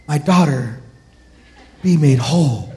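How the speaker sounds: lightly acted soft, serene Savior; mock-serene movie healer; kind, gentle movie Jesus. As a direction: say it gently, with measured pauses. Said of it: "kind and, and soft and gentle".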